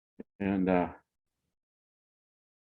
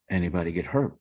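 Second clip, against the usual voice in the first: quiet and calm; 3 semitones lower, faster than usual. Retold or imitated. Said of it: "nice and quiet, calm".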